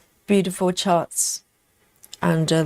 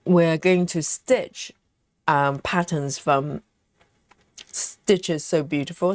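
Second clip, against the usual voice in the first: talking with chocolate in mouth; slow, through a mouthful of chocolate; mouth full; slower than usual. Real, not acted. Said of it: "I've got chocolate in my mouth".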